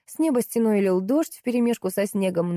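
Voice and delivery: usual speaking voice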